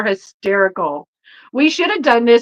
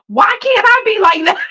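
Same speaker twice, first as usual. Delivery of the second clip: wistful envy; 9 semitones higher, 4 dB louder than usual. Retold or imitated. Envying the carefree woman.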